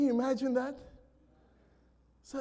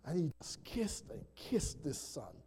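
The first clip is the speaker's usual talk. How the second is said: soft whispered awe, barely voiced; hushed whisper; 6 semitones lower, 10 dB quieter than usual. Real, not acted. Preacher whispers to the congregation about the father's kisses, hushed awe. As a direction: breathe it out in a whisper. Tender climax of reunion story.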